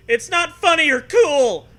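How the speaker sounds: high, loud outraged yell; hammy yell. Acted. Kid still bellowing at Zoe, high and loud. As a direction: shriek it like a hurt kid.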